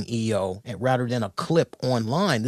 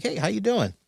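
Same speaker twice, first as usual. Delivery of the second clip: high, chummy hello; friendly greeting; 7 semitones higher, faster than usual. Retold or imitated. Retail worker patting a shoulder, friendly retold greeting. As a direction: greet them lightly, pitched up. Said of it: "you know, like".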